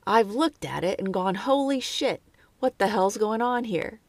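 put-on a clumsy, half-hearted Australian accent; terrible Australian accent. Podcaster quoting the shocked painter in a bad Australian accent. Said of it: "that was a terrible Australian accent".

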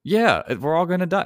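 hammed-up doom, rising to a yell; mock panic building to yell. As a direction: start worried, end yelling. Mocking Y2K panic, building.

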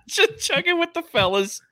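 high bro-ish cheer; frat bro. Pretend. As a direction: toast like a party bro. Toasting bro style drinking.

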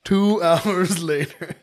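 slow, dramatic narrator voice; hushed nature documentary. Acted. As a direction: draw it out like a trailer narrator. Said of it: "That's my favorite narrator voice".

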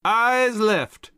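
high, loud drill command; captain ordering his men on the march; parade order. A narrator's reading. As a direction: bark the salute command. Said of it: "He ordered".

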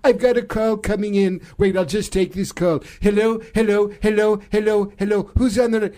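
lightly put-on presidential impression; Donald Trump. President interrupted by an incoming call, light impression. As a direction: mimic the president, lightly hammed up. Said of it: "Donald Trump and Vladimir Putin".

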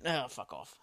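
soft, low fuck off; mock grumpy dismissal. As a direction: wave them away grumpily. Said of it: "I don't give a shit".

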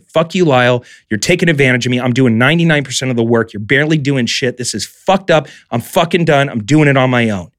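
mildly heated telling-off, building in pitch; pissed-off retort. Retold or imitated. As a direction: replay a fed-up blow-up. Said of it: "I finally got pissed off".

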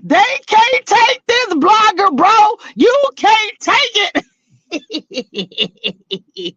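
high, slow teasing taunt. Real, not acted. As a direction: drag it out to rub it in. Taunting the network.

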